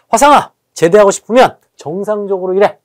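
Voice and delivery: a touch of an angry army senior; mock angry scolding. Shown as a demonstration. Teacher demonstrates the recruit scolding to wake students up, mock angry. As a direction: scold lightly in punchy phrases. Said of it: "막 이제 화를 냅니다".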